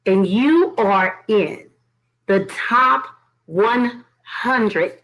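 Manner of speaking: slow, drawn-out reveal with pauses; proud announcement. Real, not acted. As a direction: space out TOP, ONE HUNDRED for impact. Proudly announcing her chart success.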